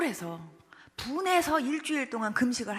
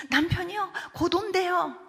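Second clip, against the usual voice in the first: higher, louder, urgent report; agitated mother; 6 semitones higher, 6 dB louder, slower than usual. Retold or imitated. Baby's mother telling the preacher her husband is coming, agitated. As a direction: blurt it out like a worried mother.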